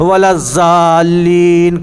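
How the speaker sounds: "الضالین" said with a plain z, as "zaalleen"; mispronounced ḍād. Shown as a demonstration. Teacher shows students their common mistake, "الضالین" mispronounced with a z sound. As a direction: say "الضالین" wrongly, a z in place of ḍād. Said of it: "زے سے تھوڑی ہے".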